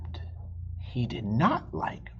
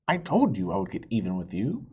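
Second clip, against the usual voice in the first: gloating fox; 4 semitones lower, 3 dB louder, much faster than usual. Acted. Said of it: "cried Fox".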